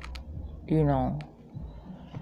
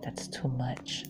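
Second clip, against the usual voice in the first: friend's mother unimpressed; 5 semitones lower, 12 dB quieter, slower than usual. Retold or imitated. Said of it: "my friend's mother was like".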